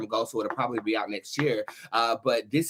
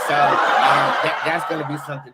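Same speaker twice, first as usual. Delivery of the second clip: laughing; 6 dB louder than usual. Real, not acted. Still laughing after the gossip.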